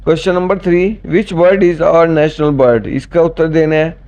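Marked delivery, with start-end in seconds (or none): 1.1-2.9 slow dictation. Shown as a demonstration. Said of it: "quiz question read slowly".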